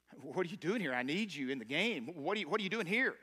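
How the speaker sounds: God urging the runner, rising insistence; urgent plea. Acted. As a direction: push it, calling them back to the game.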